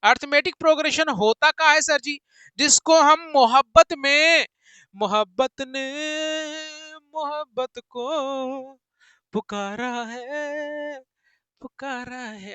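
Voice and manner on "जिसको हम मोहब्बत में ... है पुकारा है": a hint of a dramatic love dialogue, trailing off; filmy romantic line.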